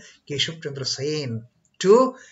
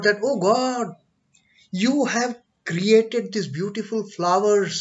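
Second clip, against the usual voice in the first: mock devotional oratory; 5 semitones higher, 4 dB louder, slower than usual. Imitating Keshav's praise of God.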